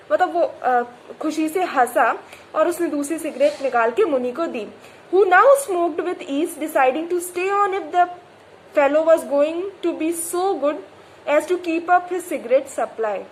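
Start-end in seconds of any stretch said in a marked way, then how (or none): 5.1-13.2 slow, deliberate reading aloud; measured textbook reading; story reading. A narrator's reading. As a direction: read the novel line carefully. Reads story text slowly.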